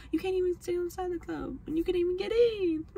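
high, teasing put-on voice; sing-song taunt in a high pitch; high mocking voice mimicking a snob; mocking inner voice. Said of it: "I was thinking".

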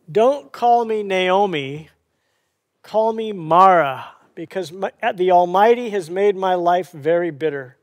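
pained, bitter. Acted. Preacher voices Naomi's homecoming speech to Bethlehem, pained and bitter. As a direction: deliver a bitter lament with forceful stresses, lightly dramatised. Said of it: "can you hear the pain in that?".

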